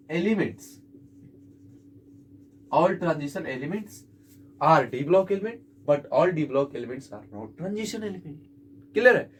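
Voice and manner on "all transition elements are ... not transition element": very slow, careful dictation of the rule; teacher dictating the full rule to students. Shown as a demonstration. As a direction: pace it out so every word can be copied. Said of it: "तो आप क्या लिखेंगे".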